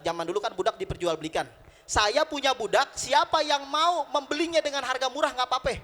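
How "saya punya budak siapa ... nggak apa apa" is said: raised, high seller's call; market hawking. Acted. Nuaiman offers a slave at the market, hawking. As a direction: call out the offer to passing buyers.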